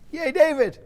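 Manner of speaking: high squeaky cheer; mock cheer. A narrator's reading. King mockingly cheering the shepherd boy, high pitched.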